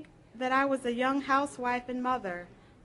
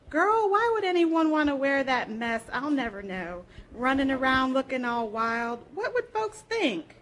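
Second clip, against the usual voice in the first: mother scolding; 5 dB louder than usual. Retold or imitated. Mother scolding daughter about afro.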